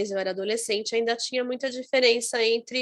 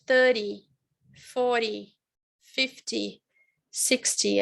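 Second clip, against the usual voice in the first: American accent, flapped T; slower than usual. Shown as a demonstration. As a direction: tap the T like an American. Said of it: "o T que parece um R, que é do americano".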